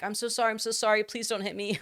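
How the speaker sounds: high-pitched, rapid frightened apology, played for laughs; hammed-up cowering assistant; mock pleading. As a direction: beg in a high voice as if about to be hit. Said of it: "sounds like a human being be like".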